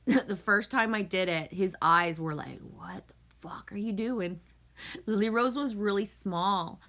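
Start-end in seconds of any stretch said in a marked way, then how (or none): 2.6-4.4 hushed, aghast whisper; a teen's stunned whispered reaction; shocked whisper. Retold or imitated. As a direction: breathe it out in disbelief. Stepson's shocked look, voiced.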